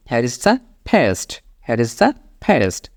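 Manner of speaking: very slow, each word clear; slow model sentence. Shown as a demonstration. Teacher showing learners what to say at the sink, very slow. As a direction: lay it out slowly to be repeated. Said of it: "সেমভাবে আপনি paste use করবেন এবার".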